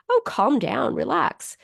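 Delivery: half-whispered "relax" tailing off; mock a breezy brush-off; imitating dismissive friend. A therapist mimics someone dismissing an upset person. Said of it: "someone says to us".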